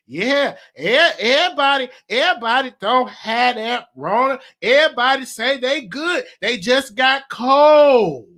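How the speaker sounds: a hint of granny insisting it's only colds; grandma's voice. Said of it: "I'm gonna do it in her voice".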